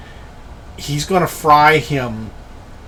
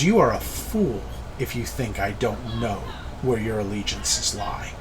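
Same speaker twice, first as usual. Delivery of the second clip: put-on softer voice with a light African accent; quietly spoken, lightly African-accented, falling away at the end; slight African accent; 3 semitones lower, 7 dB quieter than usual. Keledek calls out Scarron's allegiances, slight African accent. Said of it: "slight accent, almost an African accent".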